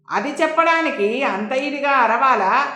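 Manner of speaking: annoyed retort, lightly acted; understated peeved question; mildly irritated. A narrator's reading. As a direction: push back with a touch of irritation. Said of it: "చికాకుగా మొహం పెట్టి".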